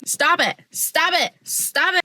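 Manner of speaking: high-pitched playful telling-off; high, quick-fire mock scolding. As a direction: squeal it in mock protest. Mock scolding after silly word.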